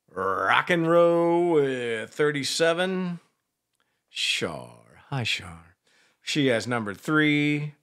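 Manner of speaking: slow, drawn-out announcer delivery; announcer roll call. Pretend. Host reading listeners' picks to the audience, announcer style. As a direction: stretch out each name and number like a radio host.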